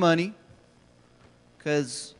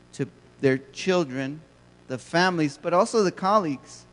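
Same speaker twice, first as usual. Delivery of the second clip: ordinary talk, nothing marked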